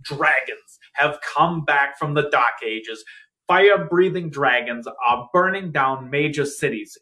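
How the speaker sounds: lightly voiced grave news bulletin; grave 1940s war broadcast. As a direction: read it like an old wartime radio bulletin. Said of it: "We interrupt this broadcast".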